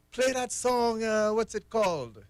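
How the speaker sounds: high-pitched impression of a caller; caller lady voice. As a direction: raise the pitch, play the eager caller. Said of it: "Remember that lady when she called in".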